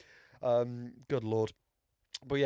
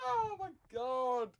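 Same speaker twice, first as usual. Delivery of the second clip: helpless laughter; 9 semitones higher, 5 dB quieter, much slower than usual. Real, not acted. Breaking up at own accent.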